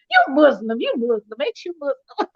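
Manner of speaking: playful mock interrogation; teasing. Woman pesters her sister about her faith, teasing. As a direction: keep prodding, about to break into laughter. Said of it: "'Cause I always tease".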